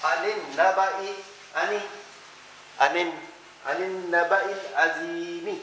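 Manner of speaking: عن النبائی slow, kasra as i; teacher demonstrating the recitation; Quranic example. Shown as a demonstration. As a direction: recite slowly with short i. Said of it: "جیسے".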